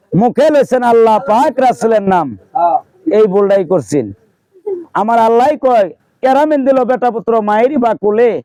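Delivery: declaimed storyteller voice, above the chatting pitch; folk-tale narration. A narrator's reading. Storyteller reveals the king's one mistake, declamatory. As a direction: proclaim the tale in measured phrases.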